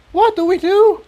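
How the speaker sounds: very high panicked question; frantic. A narrator's reading. Tiptoe asks in panic as the room shakes. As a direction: panic rising.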